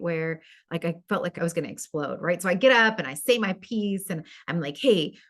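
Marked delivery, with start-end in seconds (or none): 4.8-5.2 higher, louder, heated call to the whole room; retold angry outburst. Speaker retelling how she angrily addressed the meeting, raised voice. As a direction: relive the moment you stood up and called them out. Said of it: "'cause I was so angry".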